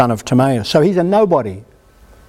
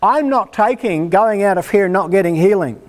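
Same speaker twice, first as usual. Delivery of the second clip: higher, pressing, begging the preacher not to send him away; a demanding plea pitched up; urgent, raised voice that won't take no; insistent plea; 5 semitones higher than usual. Pretend. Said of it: "So I need you to say".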